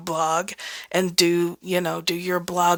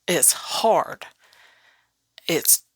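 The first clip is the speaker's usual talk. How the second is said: whispered, heavy truth; hushed admission; much slower than usual. Acted.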